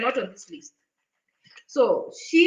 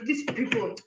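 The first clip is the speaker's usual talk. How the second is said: muttered scorn; 5 dB quieter than usual. Retold or imitated. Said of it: "She was just clicking there".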